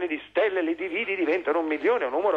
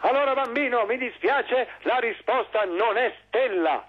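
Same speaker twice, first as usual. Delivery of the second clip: showy game show host; 5 semitones higher than usual. Acted. Host tells child he's wrong.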